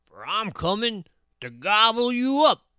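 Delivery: loud, high-rising troll threat. A narrator's reading. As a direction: threaten to eat them in a big troll voice. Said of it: "said the troll".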